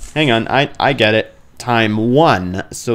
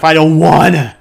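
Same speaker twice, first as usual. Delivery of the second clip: fast, louder whine of protest; whiny refusal; 4 semitones higher, 6 dB louder than usual. Real, not acted. Gamer refusing the game's order, fast and whiny.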